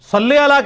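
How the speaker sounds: "صلی" high, ending in "e", "salle"; wrong majhul vowel. Shown as a demonstration. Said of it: "صلی لام زیر لے".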